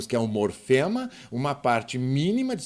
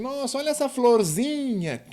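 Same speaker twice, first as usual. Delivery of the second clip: imitating casual speech; 10 semitones higher than usual. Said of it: "Porque a gente diz".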